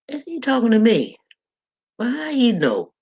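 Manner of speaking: high-pitched, indignant disbelief; acted alarm, pitch jumping up; mock startled. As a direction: imitate a churchgoer who feels found out. Acts churchgoer startled at being exposed.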